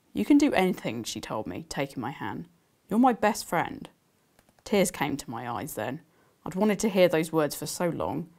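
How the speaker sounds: reading her novel aloud to listeners; gentle storytelling read; story narration. Acted. Author reading her book to the audience, storytelling. Author reads second excerpt.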